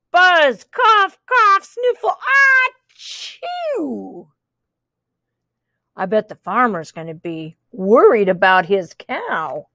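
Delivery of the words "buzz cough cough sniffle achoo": sick buzzing cow. Acted. Reading to a child, the sick cow coughs. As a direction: cough and sniffle it out high. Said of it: "said the cow".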